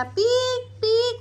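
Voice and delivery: high, slow "पीक पीक" squeak; mother imitating a bottle's squeak for her toddler; squeak imitation. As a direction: mimic the squeak up high, slowly.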